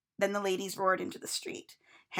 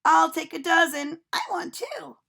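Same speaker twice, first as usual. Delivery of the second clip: clamoring; 7 semitones higher, 5 dB louder than usual. A narrator's reading. Ladies clamoring for tarts.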